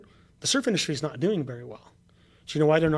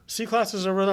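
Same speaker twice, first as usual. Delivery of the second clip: mock snooty salesman; 5 semitones higher than usual. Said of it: "That's what he said to me".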